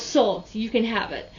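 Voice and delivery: mildly angry retold snap decision; retold mad. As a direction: imitate an annoyed seller, lightly.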